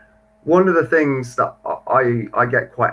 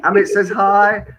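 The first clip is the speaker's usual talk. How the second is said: cheery greetings; 8 semitones higher, slower than usual. Real, not acted. Reading out viewer greetings.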